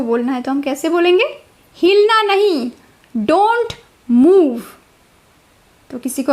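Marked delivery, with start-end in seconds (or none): 1.8-4.6 firm command. Shown as a demonstration. Forbidding someone to move.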